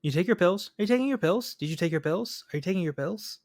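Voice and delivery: mock nagging. Acting out repeated nagging about pills.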